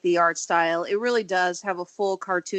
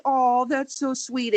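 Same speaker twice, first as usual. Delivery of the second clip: mock cooing; slower than usual. Acting out a touched reader's reaction.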